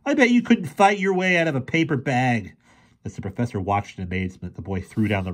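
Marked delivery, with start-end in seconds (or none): 0.0-2.5 high-pitched jeer; taunting. A narrator's reading. Fergie goads the boy, taunting. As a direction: goad him into a fight. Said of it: "in a taunting voice".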